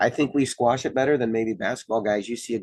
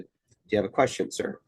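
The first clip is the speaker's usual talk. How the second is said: calm polite question; 3 dB quieter than usual. Retold or imitated. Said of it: "And I said it just like that".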